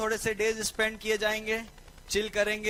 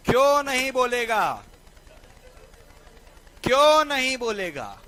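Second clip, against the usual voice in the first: louder, punching क्यों in क्यों नहीं बोलेगा; emphatic challenge; 2 semitones higher, 6 dB louder than usual. Shown as a demonstration. Teacher challenging students on court ruling, emphatic and loud. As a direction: challenge the class forcefully. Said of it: "नहीं बोलेगा ऐसे?".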